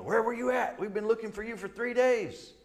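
high, anxious mom scolding; worried mother. Retold or imitated. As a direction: sound like a frantic mother who searched. Mary finding boy Jesus.

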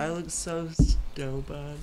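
slow, through a mouthful; mouth full. Real, not acted. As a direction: talk around stuffed cheeks. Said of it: "I can't even fit three in my mouth".

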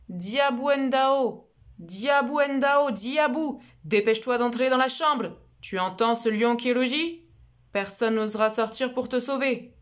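father calling urgently. Acted. Father calling his daughter inside from the lion, urgent and loud. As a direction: call her in before the lion comes.

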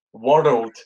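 World Wars blurted loud and high, exasperated; loud frustrated retry. Real, not acted. Tripping over World Wars on a podcast, loud exasperated retry. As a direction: force the word out in frustration. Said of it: "Fuck me, what the hell is that saying?".

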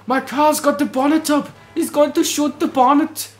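high, hammed-up panicky voice; mock panicked driver. Player voicing the fleeing man, high mock panic. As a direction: squeal it like a frantic stranded motorist. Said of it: "I bet he's running over like".

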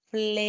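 เฟล as one syllable, F blended into L; blended cluster. Shown as a demonstration. Teacher demonstrates blending for a student, one smooth cluster. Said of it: "ถ้าควบกล้ำมาเลยก็จะเป็นเงี้ย".

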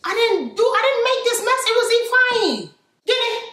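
scolding Nigerian mum voice; West African accent. Acted.

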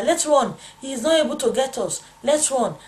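retold cry of alarm; urgent call. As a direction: call out to get someone running. Urging sister to flee from danger.

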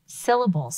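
SYL-la-bles in firm beats; clapped-out syllables. Shown as a demonstration. Teacher repeats the word in beats. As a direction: tap out "Syllables." again.

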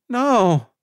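high, loud anguished scream of no; screamed denial. A narrator's reading. Ruby screaming denial at news of Theo's death. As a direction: scream it in grief and disbelief. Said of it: "who had screamed the denial".

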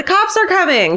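high-pitched mock yell; retold yell. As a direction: call it out high like a warning. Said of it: "I've yelled".

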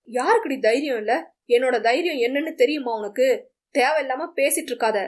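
a touch of temper, snapping back fast; angry. Acted. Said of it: "என கோபமாக பேசினான்".

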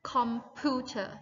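computer said slowly with clear stress on the second syllable; teacher's model word. Shown as a demonstration. Teacher modelling computer for students to repeat. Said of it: "ออกเสียง".

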